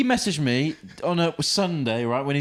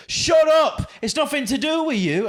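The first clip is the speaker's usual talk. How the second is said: shouting, mocking a flatmate; a hammed-up angry yell; 11 semitones higher, 5 dB louder, slower than usual. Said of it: "he goes".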